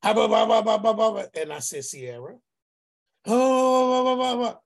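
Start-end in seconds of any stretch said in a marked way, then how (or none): 0.0-1.2 louder, hammed-up blah-blah rant; mock rant. Uncle imitating his niece's angry phone rant. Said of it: "she's hot". 1.8-2.4 much softer, lower calming call of her name; calm, gentle. Retold or imitated. Uncle gently calming his furious niece on the phone. 3.3-4.6 higher, louder hammed-up blah-blah; mock rant. Uncle imitating his niece ranting over him. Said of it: "she's hot".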